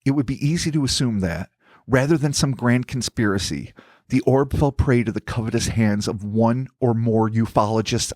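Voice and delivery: measured, formal storytelling; scripted narration. Acted. Host reading out who may have taken the orb, scripted narration. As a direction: read it out as a deliberate, articulate narrator.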